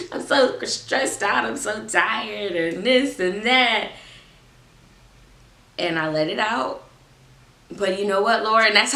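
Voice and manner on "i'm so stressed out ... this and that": drawn-out, slow retold venting; stressed-out venting. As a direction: let out the stress slowly. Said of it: "Girl, this is how I feel".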